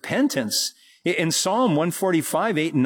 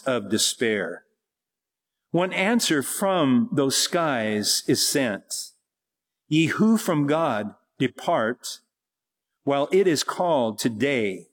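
poem reading. Acted. Preacher reads a poem.

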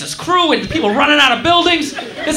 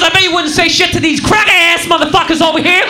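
angry guy. Retold or imitated. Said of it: "He goes".

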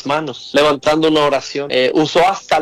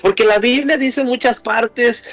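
fervent preaching; 6 semitones higher than usual. Acted. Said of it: "preacher lifts voice".

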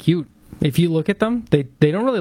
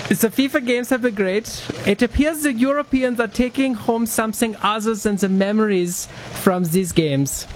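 higher put-on reporter voice, the last words slowed; mock news reporter; 8 semitones higher than usual. Mock reporter voice introducing the World Cup segment. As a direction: play a cheesy sports reporter opening the segment.

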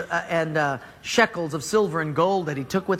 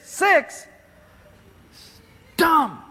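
scoffing; 9 semitones higher, 3 dB louder than usual. Acted. Naaman scoffing at count.

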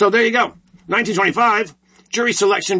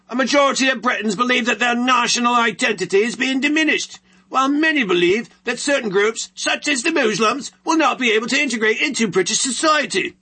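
higher, mock British newsreader accent; British broadcaster voice; 4 semitones higher than usual. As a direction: read it like a BBC announcer with a British accent. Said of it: "I shall read my British broadcaster voice".

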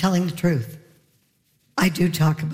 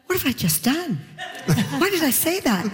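panicked daughter; 6 semitones higher than usual. Retold or imitated. Daughter's panicked thought voiced.

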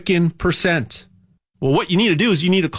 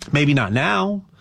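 normal talking voice

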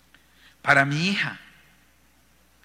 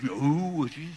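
put-on cat meowing with a French accent; playful French-cat meow; 3 dB quieter, much slower than usual. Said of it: "lo dice con acento ... como en francés".

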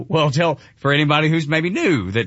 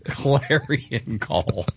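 slow, lightly grand echo; grand mimicry; 4 dB quieter, much slower than usual. Co-host savors the show's writing, slow mock-grand echo. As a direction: draw it out, savoring the phrase. Relishing echo of played clip.

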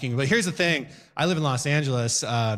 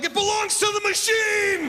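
lofty declaration; slower than usual. Retold or imitated. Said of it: "I'm like".

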